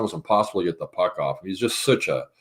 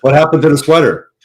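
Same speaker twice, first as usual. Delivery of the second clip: playful Crosby quote; 5 semitones higher, 9 dB louder than usual. Retold or imitated. Crosby at the wife's door.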